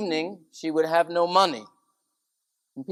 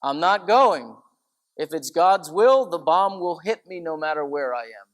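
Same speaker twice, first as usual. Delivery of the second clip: firm, louder quoted resolve; a firm elderly nun refusing to hide; quoting her; 6 dB louder than usual. Retold or imitated. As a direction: say it like her own firm stand. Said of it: "And she would say".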